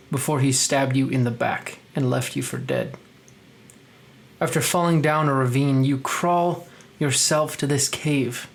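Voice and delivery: steady, grave scene setting; measured dramatic narration; story narration. A narrator's reading. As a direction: set a dark scene for the players. Game master scene narration.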